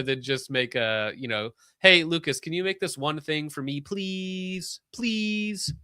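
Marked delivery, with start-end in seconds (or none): 1.8-5.7 high, pleading mock beg; whiny pleading. Mock-begging a friend for a favor, whiny. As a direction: beg like a needy kid, pitched up.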